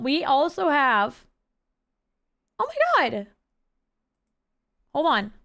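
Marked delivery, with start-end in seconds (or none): 2.6-5.3 holding back a sneeze; words caught before a sneeze; about to sneeze. Real, not acted. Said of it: "I'm gonna sneeze".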